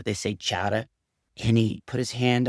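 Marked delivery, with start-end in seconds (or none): 0.4-0.9 "chata" said without the R, New England style; dropped R. Shown as a demonstration. Showing how New Englanders talk, "chata" with no R. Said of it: "they don't say the word R".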